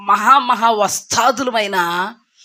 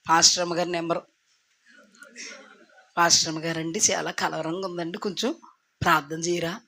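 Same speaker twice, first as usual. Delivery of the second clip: worried phone plea; 5 semitones lower, 7 dB quieter, faster than usual. Acted. Anxious believer phoning the pastor.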